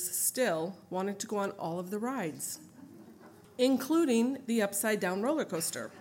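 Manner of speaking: measured, even reading of a written account; memoir reading. Acted. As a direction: read it out like a book. Back to reading her memoir.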